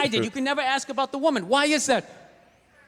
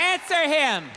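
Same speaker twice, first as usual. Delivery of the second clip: brighter, faster repeat; mock heckler yell again; 4 semitones higher, slower than usual. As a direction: toss it back at him.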